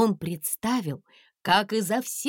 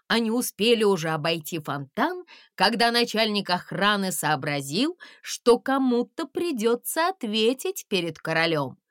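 usual speaking voice

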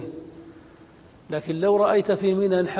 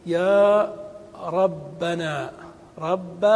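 supplication; much slower than usual. Shown as a demonstration. Calling upon God.

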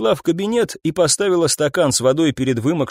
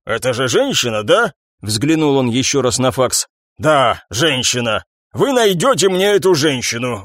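lightly voiced old captain; 2 semitones higher than usual. Captain briefing detectives, lightly voiced fussy boss. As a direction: give orders like a tired chief.

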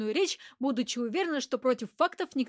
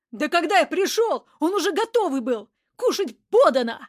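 loud, higher angry shout; furious yell; 5 semitones higher, 9 dB louder than usual. A narrator's reading. Accused man yelling furiously at the woman, loud shout. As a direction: yell it in fury. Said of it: "яростно заорал Мерзляков".

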